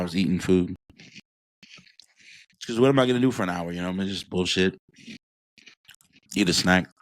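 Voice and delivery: talking while munching cookies; crunching cookies. Real, not acted. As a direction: speak through a mouthful of crunch. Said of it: "Sorry that I'm crunching your ear".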